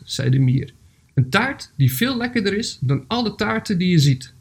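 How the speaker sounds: measured storybook reading with pauses; story narration. A narrator's reading. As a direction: read a gentle animal tale aloud, phrase by phrase. Reads a story aloud.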